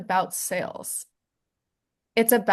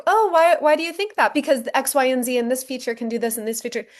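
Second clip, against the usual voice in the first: over-explaining seller; 4 semitones higher than usual. Retold or imitated. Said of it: "like, over-explain or".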